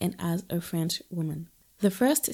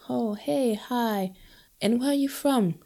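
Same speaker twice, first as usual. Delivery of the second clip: a hint of chirpy small talk, pitched up; new acquaintance greeting; 5 semitones higher than usual. New people meeting her at university, lightly mocked higher greeting. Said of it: "they would go".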